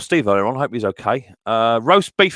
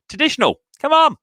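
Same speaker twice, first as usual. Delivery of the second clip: high-pitched call, ending louder; raised, impatient plea to the chat; exasperated urging; 3 dB louder than usual. Real, not acted. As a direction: egg the guessers on. Urging chat to guess right.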